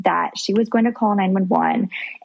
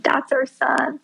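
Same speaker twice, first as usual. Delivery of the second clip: higher, choked-up voice of a husband in tears of joy; a light retold touch of emotional joy, pitched up; imitating joyful weeping; 6 semitones higher, slower than usual. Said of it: "my husband weeping with joy".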